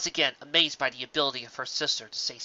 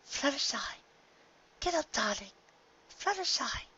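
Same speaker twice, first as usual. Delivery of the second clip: calling out; 12 semitones higher, 5 dB quieter than usual. Acted. Calling to waking pony.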